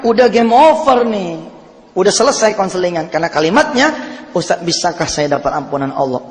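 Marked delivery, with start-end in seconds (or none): 4.3-6.3 quiet, humble asking; a softer, humble plea for forgiveness; earnest plea. Retold or imitated. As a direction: ask it meekly, like a repentant man. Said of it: "Itu yang benar".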